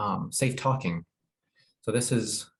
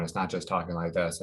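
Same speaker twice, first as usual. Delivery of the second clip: monotone demo, lower; 4 semitones lower than usual. Shown as a demonstration. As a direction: drone it without melody. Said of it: "it's not monotone".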